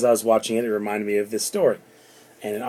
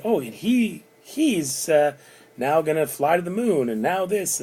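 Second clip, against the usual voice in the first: gushing stepmother; 6 semitones higher, slower than usual. Retold or imitated. Stepmother bragging about nephews.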